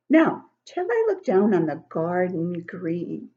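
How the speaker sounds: sing-song poem recital, rising and falling; poem reading. Acted. Grandmother reading a poem to children, sing-song. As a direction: read the verses like a swing moving.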